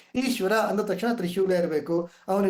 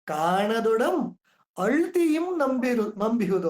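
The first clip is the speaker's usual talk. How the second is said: very slow, drawn-out recital; slow poetic reading; verse recitation; slower than usual. Shown as a demonstration. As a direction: stretch the quoted verse. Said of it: "ಅದನ್ನೇ D V G ಅವ್ರು ಹೇಳ್ತಾರೆ".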